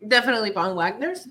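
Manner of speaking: deadpan sarcastic praise; dry sarcasm. Real, not acted. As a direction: say it flat, not meaning it. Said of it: "That's sarcasm".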